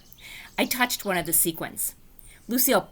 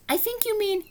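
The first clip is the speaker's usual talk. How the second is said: slow, lightly voiced teacher correcting; teacher's voice; 7 semitones higher than usual. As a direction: gently correct her, a touch slower. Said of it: "she said".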